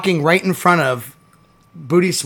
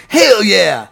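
raised, louder, slowed jive mimicry; imitating Al Pacino; 6 semitones higher, 5 dB louder, slower than usual. Podcast host mimics Al Pacino's character, raised and louder. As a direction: drawl it out, half singing. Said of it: "Al Pacino's like".

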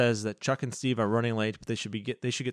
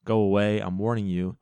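growling; 5 dB louder than usual. Retold or imitated. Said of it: "Carly Beth growls at her".

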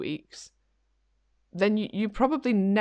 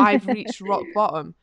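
slow, louder melodrama; mock catastrophizing; 2 semitones higher, 5 dB louder than usual. Overreacting client declares rock bottom, mock catastrophizing. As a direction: declare it like a hammed-up disaster. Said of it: "Like, catastrophizing everything".

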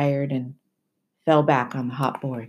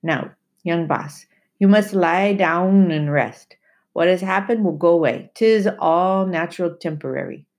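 very gently. Acted. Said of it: "He said very gently".

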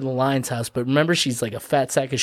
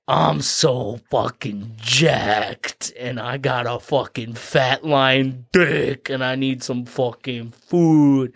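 slow, drawn-out macho lion; jacked lion; much slower than usual. Retold or imitated. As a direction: stretch every word like a pumped-up brute. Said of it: "So this lion's like".

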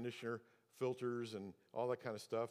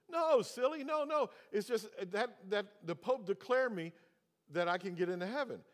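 much higher, louder imitation of the older owner; mock owner voice; 7 semitones higher, 5 dB louder than usual. Preacher imitates the apartment owner dismissing him, mock high voice. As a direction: play the old man brushing off a kid. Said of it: "And he goes".

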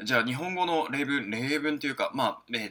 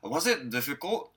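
slow model question; slower than usual. Shown as a demonstration. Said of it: "とか、あとは".

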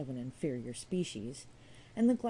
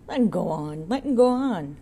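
loud urging; 2 semitones higher, 11 dB louder than usual. A narrator's reading. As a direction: shout over the bar to let them go on. Auctioneer shouting over the bar.

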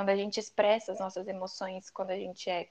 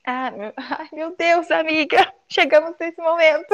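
giddy, high and loud; squealing with nervous excitement; 7 semitones higher, 11 dB louder than usual. Real, not acted. First podcast ending, excited squeal.

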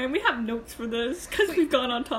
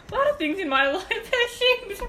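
mock solemn; 8 semitones higher, 4 dB louder than usual. Mocks friend's solemn line.

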